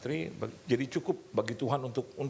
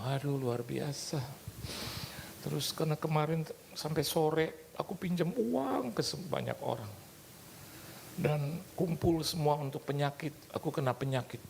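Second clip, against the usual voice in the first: imitating the sister's tearful voice, pitched higher; 5 semitones higher than usual. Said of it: "Wah, dia nangis". (menirukan kakak yang terharu, suara lebih tinggi)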